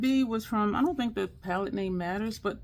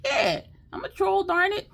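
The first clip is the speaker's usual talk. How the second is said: much higher, loud proud cry; proud defiance; 12 semitones higher, 5 dB louder than usual. Pretend. Viewer embracing the troll name, high and proud. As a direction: declare it with cheeky pride. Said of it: "as you did the intro".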